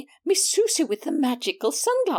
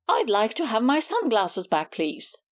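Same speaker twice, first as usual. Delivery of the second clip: courteous yet unbending request; polite but firm; 4 semitones lower than usual. Acted. Cat asking the neighbour's cat for her sunglasses, politely firm. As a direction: ask nicely but mean business. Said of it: "in a polite but firm voice".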